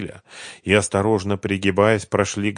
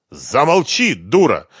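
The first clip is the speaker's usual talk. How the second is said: angry; 6 semitones higher, 6 dB louder, slower than usual. A narrator's reading. Husband silences her.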